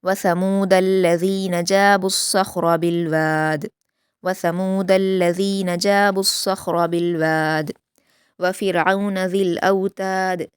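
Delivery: slow, melodic Quranic recitation; measured Quran recitation; tajweed recitation. Shown as a demonstration. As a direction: recite it slowly and carefully as a model for students. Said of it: "दाल पर कलकला होगा last में".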